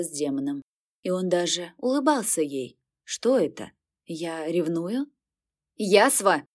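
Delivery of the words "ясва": barking shout. Acted. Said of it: "гаркнула мама".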